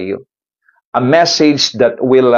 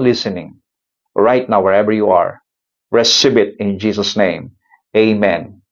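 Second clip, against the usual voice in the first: closing prayer. Acted. Pastor praying over everyone listening, earnest and declaring. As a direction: declare each blessing with steady conviction.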